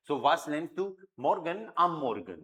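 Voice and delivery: slow, careful model sentence; slow dictation. Shown as a demonstration. Teacher modelling sentence for class slowly. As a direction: draw each word out. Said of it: "teacher repeating sentence slowly".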